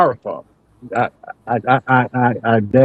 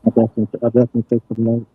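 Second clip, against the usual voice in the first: muffled, like through a wall; sounding far off and muffled; faster than usual. Real, not acted. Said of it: "You sound muffled".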